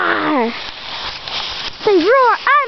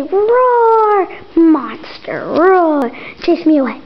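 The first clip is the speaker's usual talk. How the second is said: low, growly-voiced monster line; monster roar demo; 5 semitones lower, much slower than usual. Shown as a demonstration. Parent demonstrating the monster line for Greg, low growl. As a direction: show the kid how a monster says it. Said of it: "No, say".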